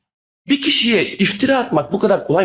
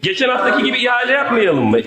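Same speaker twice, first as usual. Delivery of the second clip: raised, heated protest; angry shout; 3 semitones higher than usual. Real, not acted. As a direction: call it out in anger. Heated council debate, raised voice. (öfkeyle bağırarak)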